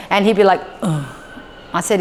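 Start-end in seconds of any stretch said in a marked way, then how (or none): 0.8-1.2 low, soft groan of frustration; frustrated grunt. Retold or imitated. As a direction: imitate a frustrated child's grunt. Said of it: "a frustrated face".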